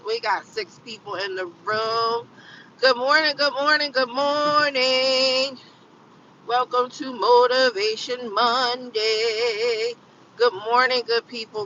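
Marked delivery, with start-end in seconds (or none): 2.8-11.7 bright greeting. Acted.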